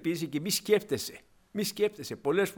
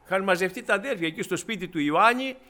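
usual speaking voice

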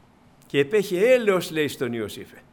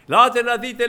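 retold shout; 5 semitones higher, 9 dB louder than usual. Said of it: "άρχισε να φωνάζει".

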